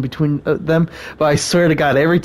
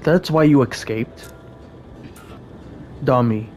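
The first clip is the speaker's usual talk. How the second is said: character voice. Acted. Voices game characters in dialogue.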